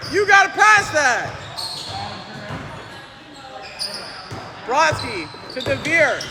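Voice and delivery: quick, lively sports commentary calling each play. Acted. Commentator calling the game for viewers, live play-by-play. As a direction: call the game like a courtside announcer.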